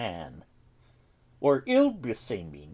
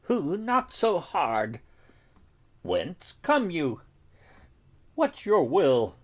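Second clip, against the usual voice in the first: calling through door; 5 semitones higher, 4 dB louder than usual. Acted. Friar calls through the door.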